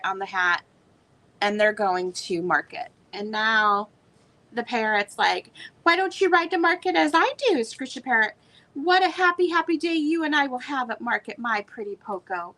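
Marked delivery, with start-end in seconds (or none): 5.8-12.5 higher, fast and gloating; a mock-sweet, taunting bird; nasty parrot. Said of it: "the parrot is just nasty to him".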